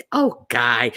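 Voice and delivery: lightly voiced imitation of Tim Scott, pleading; mock him as a reasonable man asking to be understood; Tim Scott impression. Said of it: "Why you sound like this".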